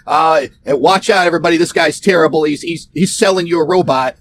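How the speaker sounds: a hint of a jeering streamer; mock heckler. Mocking the live chart watcher.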